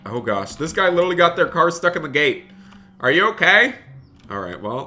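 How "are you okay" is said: high, loud rising question; concerned call. Real, not acted. Streamer calling to a driver stuck at the gate, concerned. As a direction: call out to check on someone.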